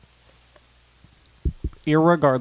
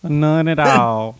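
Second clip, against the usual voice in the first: ironic denial; 4 semitones higher, 4 dB louder, much slower than usual. Pretend.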